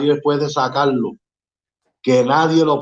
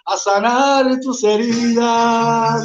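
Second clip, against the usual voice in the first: spoken verse over music. Acted. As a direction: recite it like a tender poem.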